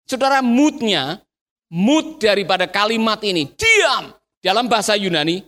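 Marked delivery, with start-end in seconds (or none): 3.5-4.1 raised, cross one-word order; angry command. Acted. Crowd's word to the beggar, angry command. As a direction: order silence, pitched up crossly.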